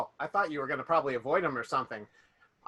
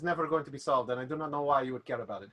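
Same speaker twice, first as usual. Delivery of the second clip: put-on French accent; faster than usual. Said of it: "a French accent or an Eastern European accent".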